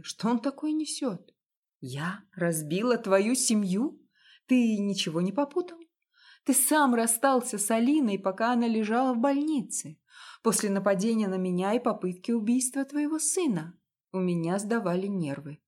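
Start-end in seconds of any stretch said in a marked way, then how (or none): 1.8-13.8 higher and louder retort; indignant disbelief. Acted. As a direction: fire back in outrage. Wife's indignant disbelief at husband. (возмущённо, громче и выше)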